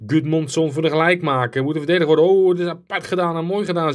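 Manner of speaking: agitated live match commentary; excited goal call. Real, not acted. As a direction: call the equaliser as it goes in. Opponent scores the equaliser in game.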